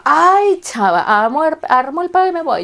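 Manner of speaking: sing-song mockery of "armo el peo y me voy", stretching "chama"; mocking the ex. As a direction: parody a cocky man bragging "armo el peo y me voy". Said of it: "Esos hombres que te quieren jugar la de".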